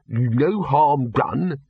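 slow, effortfully calm words; forced calm. Acted. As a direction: hold it together, very slowly and evenly. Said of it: "No voice could be as calm as that without tremendous effort".

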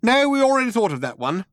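very high mouse voice, cutting in; interrupting. A narrator's reading.

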